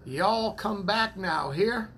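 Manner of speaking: light imitation of a Southern US accent; a friendly, mild Southern accent send-off; Brother Dale's southern accent. Teasing a church member with a mild Southern accent. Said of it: "Brother Dale with his southern accent".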